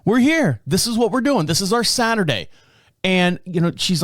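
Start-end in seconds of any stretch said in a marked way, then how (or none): 0.0-2.5 higher, soothing "it's okay, babe"; calm her down, lightly played; reassuring wife, retold. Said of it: "I'm like".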